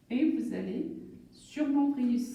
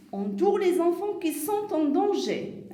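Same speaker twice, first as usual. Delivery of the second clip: reading instruction aloud; 6 semitones higher, 4 dB louder than usual. Acted.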